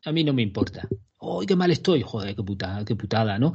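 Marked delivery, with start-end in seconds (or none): 1.2-2.0 high whiny moan; mock whiny friend. Acting out a friend who complains, high and whiny. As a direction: whine it like a sorry friend.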